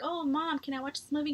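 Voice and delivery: a hint of a small kid asking Mom; childlike brother. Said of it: "he talks like a six-year-old".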